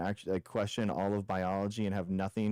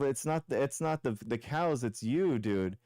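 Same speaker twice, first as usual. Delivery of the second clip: ordinary talk, nothing marked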